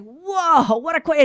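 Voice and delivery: high, loud mock amazement; imitating someone bowled over; taken aback. Retold man stunned by the question.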